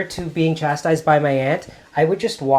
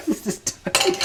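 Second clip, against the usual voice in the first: very high squeaky voice; playful high squeak; tiny voice. Pretend. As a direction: make the words as small as the bit left.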